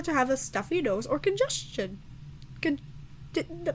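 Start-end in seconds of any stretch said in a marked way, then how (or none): 2.6-3.7 higher, breaking voice, slowed down; words catching in a sore throat; cracking voice. Real, not acted. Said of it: "I cannot speak".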